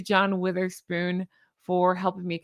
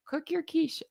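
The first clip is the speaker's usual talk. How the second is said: high soft voice; 8 semitones higher, 6 dB quieter than usual. Shown as a demonstration. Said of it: "my crazy thing at the end".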